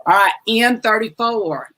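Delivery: slow, drawn-out bingo call. Acted. Bingo host announcing the next ball slowly. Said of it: "bingo calling".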